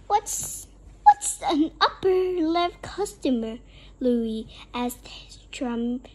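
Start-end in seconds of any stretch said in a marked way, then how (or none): 0.1-3.6 mildly fearful question, pitched higher; lightly acted nervous vampire; trembling question. A narrator's reading. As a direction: ask with a touch of alarm.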